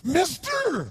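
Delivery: put-on bizarre drunk voice. Drunk to young speaker: bizarre high loud cry. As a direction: call out like an odd street drunk. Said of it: "He had this really bizarre looking sounding voice".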